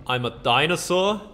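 rising, disbelieving question; just realised you're a dinosaur; surprised question. Real, not acted. Gamer discovering his character became a dinosaur, surprised question.

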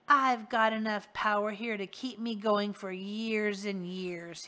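a leering henchman, gloating; smug villain boast. Acted. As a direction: brag like a crook who outsmarted his boss. Rictus gloats over globe.

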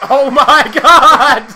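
laughing. Real, not acted. Co-op death chaos, laughing.

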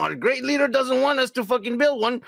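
mock dictator voice. Playing Kim ordering his people, hammed-up. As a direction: bark like a petty dictator.

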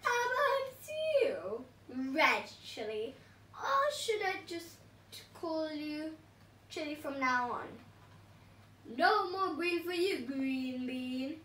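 lightly voiced gloating villain; gloating villain pea. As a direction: sneer at each veggie in turn. Villain Pea taunting veggies.

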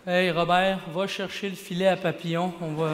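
lightly voiced kid summoning his buddy; schoolkid calling a friend. Québécois schoolkids spotting the only brown boy, mock astonishment.

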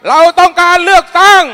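high, loud slogan shout; rally slogan. Real, not acted. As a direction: shout the demand to the crowd.

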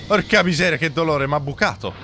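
loud, high pained cursing; explosive italian cursing. Real, not acted. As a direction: curse out loud like you got stabbed. Hit in game, cursing.

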